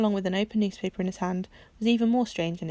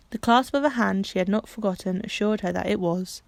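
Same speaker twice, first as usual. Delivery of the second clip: usual speaking voice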